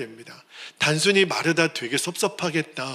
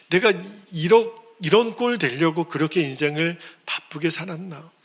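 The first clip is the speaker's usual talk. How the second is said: normal talking voice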